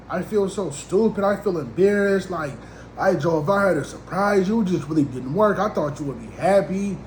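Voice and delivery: mild mock hurt, as if near tears; imitated tearful woman. Crying woman explains her failed surprise visit, lightly imitated upset. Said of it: "like, she crying".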